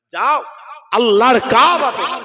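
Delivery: high, loud shouted command; preaching at full force. Acted. Preacher urging the gathering toward the Kaaba. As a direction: roar it to the crowd.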